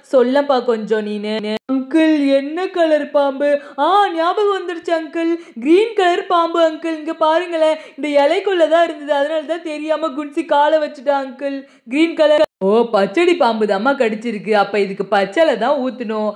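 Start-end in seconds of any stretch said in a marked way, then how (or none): 1.7-12.5 put-on lightly higher child voice remembering; a kid excitedly pointing out the snake; a hint of an excited young boy; eager little boy. 12.7-16.3 put-on a concerned young healer asking which snake; village healer's son. Healer's son advises hospital.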